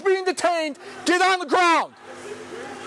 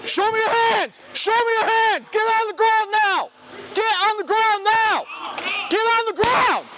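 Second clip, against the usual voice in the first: shouted surrender demands; 3 semitones higher than usual. Real, not acted. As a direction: yell the orders at the suspects. Officer ordering suspects down at gunpoint.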